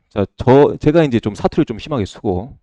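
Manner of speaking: ordinary talk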